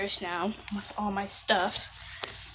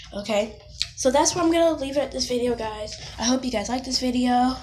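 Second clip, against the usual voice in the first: talking in an echoey stairwell; hallway echo around the voice; 3 semitones higher than usual. Real, not acted. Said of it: "I'm in the staircase hallway".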